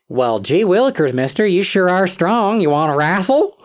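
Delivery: put-on gee-whiz country boy, backwoods hick accent. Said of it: "speaks with an accent that paints him out as, like, the, the deepest backwoods hick".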